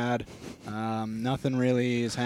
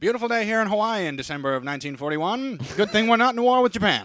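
cheery announcer voice; 5 semitones higher than usual. Acted. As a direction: sell the lovely day, cluelessly. Mock newscaster, Pearl Harbor.

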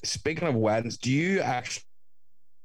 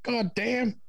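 high American exclamation; mock American; 12 semitones higher than usual. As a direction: drawl it like an impressed Yank.

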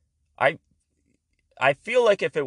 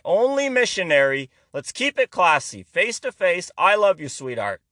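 uptight husband; 3 semitones higher than usual. Retold or imitated. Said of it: "he looks like he'll only".

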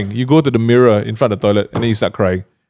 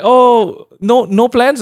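surprised delivery guy; 10 semitones higher, much slower than usual. Retold or imitated. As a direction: play the delivery guys, startled he is alone. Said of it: "Then they're like".

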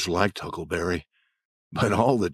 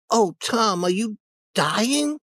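put-on scared child voice; 12 semitones higher than usual. Sid frightened.

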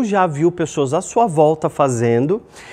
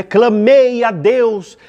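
slow, raised, forceful invocation; big drawn-out plea, pitched up; crying out to God; 5 semitones higher, 4 dB louder, much slower than usual. Shown as a demonstration. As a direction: call out with strong intonation. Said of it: "são entonações, são, é, muito fortes".

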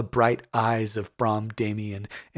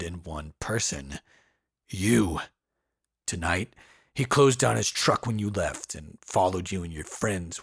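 gruff man. Acted. Voices Brom's long explanation.

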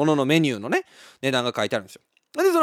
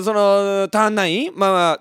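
ordinary talk

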